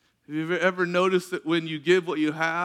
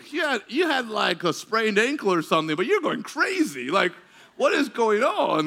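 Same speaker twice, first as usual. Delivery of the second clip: retold bewilderment, pitch leaping up; mildly freaked out; 4 semitones higher than usual. Preacher to woman jumping over a sprain, acted bewilderment. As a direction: act baffled by her overreaction. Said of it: "like, freaking me out".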